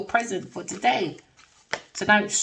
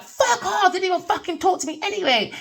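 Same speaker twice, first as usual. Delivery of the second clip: mock brush-off; 11 semitones higher than usual. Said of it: "Sometimes I'm like".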